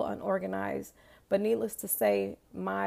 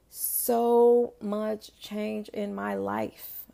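slow, louder, leaning hard on change; stress on change; 5 dB louder, much slower than usual. Real, not acted. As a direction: drag out and punch change. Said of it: "I put emphasis on change".

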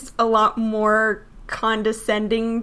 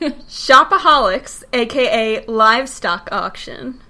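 sultry voice. Shown as a demonstration. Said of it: "I did it in my most sultry voice".

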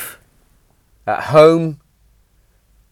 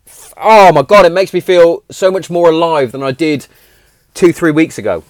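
excited outburst; 5 semitones higher, 4 dB louder than usual. Real, not acted. Overjoyed at his recovery.

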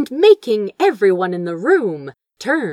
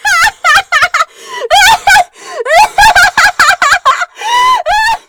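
loud, high laugh climbing upward; helpless laughter; 9 dB louder than usual. Acted. Girl in torn gold dress doubled over, a rising shrieking laugh. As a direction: laugh so hard you can barely stand. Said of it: "laughing so hard she could barely stay upright".

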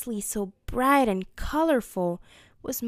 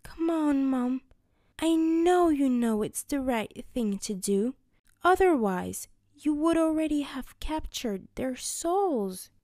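put-on higher pleading young girl; 4 semitones higher than usual. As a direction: coax her mother, a bit higher. Fo pleading with her mother.

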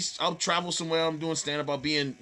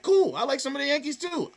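breezy agreement; 9 semitones higher than usual. Retold or imitated. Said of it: "I'm like".

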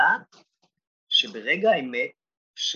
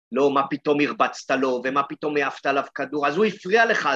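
reproachful teacher tone, rising on הפריע; mock scolding. Teacher rebuking boy who threw the ball, mock scolding. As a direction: play the rebuking adult who lectures. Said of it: "התוכחה הזאת".

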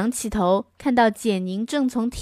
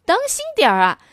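higher, brighter clown warning; higher clown calling up to the girl; 6 semitones higher, faster than usual. Acted. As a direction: call out like a cheerful clown. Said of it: "小丑说".

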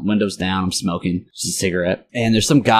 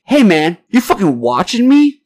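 mock confrontation, pitched up; confrontational stranger; 9 semitones higher, 4 dB louder, slower than usual. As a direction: act out a riled stranger, last words drawn out high. Retells a stranger confronting him.

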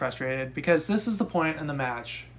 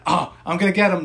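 mock Flair; 3 semitones higher, 7 dB louder, faster than usual. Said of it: "Just like".

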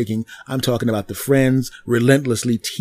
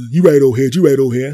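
louder, grudging repeat; mumbled agreement; 2 semitones higher, 6 dB louder than usual. Retold or imitated. Bottle guy grudgingly agreeing with the older man, louder. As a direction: concede grudgingly.

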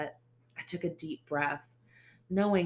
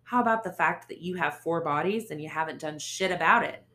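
loud mocking challenge; woman taunting a cop, loud; smirking taunt; 6 dB louder than usual. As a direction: throw it back in his face. Narrator taunts Ace.

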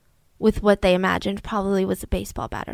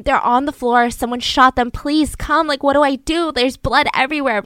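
frantic plea; 3 semitones higher than usual. Retold or imitated. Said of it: "like, frantic".

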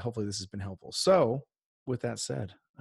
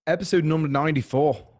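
a light English-Scottish lilt in place of an Irish fighter voice; mixed English-Scottish accent; 3 semitones higher than usual. Acted. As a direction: attempt at a Conor McGregor accent that comes out English-Scottish. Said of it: "like, a English and a Scottish".

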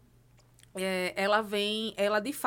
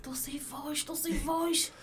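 hoarse voice; 4 semitones higher, 5 dB quieter, slower than usual. Retold or imitated. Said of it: "eu chego lá no escritório e".

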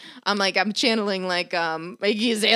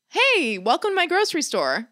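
higher, sing-out store welcome; hammed-up improv opener, pitched up; improv shopkeeper greeting; 6 semitones higher than usual. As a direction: greet a pretend customer. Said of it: "So we start out, I go".

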